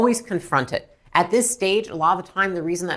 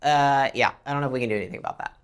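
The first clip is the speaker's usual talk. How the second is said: indifferent; 4 semitones lower than usual. Acted. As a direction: brush the caller off half-heartedly. Mimics an indifferent service agent.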